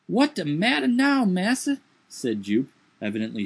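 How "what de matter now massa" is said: high, dialect servant voice raised in alarm; high put-on dialect voice, startled; Jupiter's voice. A narrator's reading. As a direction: lift the voice high and protest.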